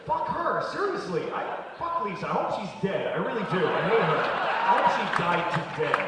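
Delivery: mock fury. Mock hateful rant on Lisa.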